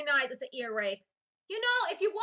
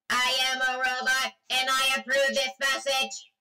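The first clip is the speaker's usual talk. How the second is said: robot voice; 5 semitones lower, 4 dB louder than usual. Shown as a demonstration. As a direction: lower robot voice. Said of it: "make your voice sound like a robot".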